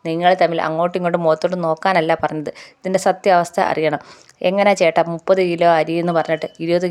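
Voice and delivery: retold insistent demand. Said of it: "എന്ന് അലീന വാശി പിടിക്കുന്നുണ്ട്".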